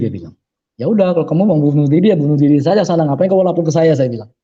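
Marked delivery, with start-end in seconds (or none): 0.7-3.9 exasperated retort, acted out in retelling; mildly heated "go ahead then"; retold brusque dismissal. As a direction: brush them off impatiently, quoting yourself.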